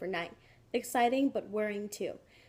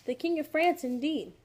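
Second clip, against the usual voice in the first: scolding mother; 6 semitones higher, 4 dB louder than usual. A narrator's reading.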